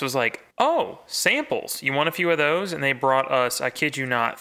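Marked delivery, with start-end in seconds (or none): 0.6-2.7 eager offer. Retold or imitated. Booth staff offering samples to visitors, mock-eager. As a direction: pitch it up like a keen offer of freebies.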